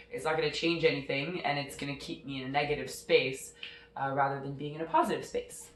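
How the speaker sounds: stuffy nose from a cold; blocked-nose cold voice; nasal voice. Real, not acted. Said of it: "my nasally, uh, voice here".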